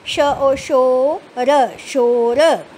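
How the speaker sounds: teacher drawing out each letter loudly; slow loud spelling. Shown as a demonstration. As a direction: stretch every sound for young readers. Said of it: "मेरे साथ साथ पढ़िए".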